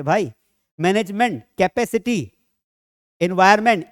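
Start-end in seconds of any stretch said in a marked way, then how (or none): 0.8-2.3 मैनेजमेंट and कैपेसिटी sounded out piece by piece; in syllable chunks. Shown as a demonstration. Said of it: "टुकड़े करके पढ़". (मैनेजमेंट, कैपेसिटी को टुकड़े करके पढ़ें)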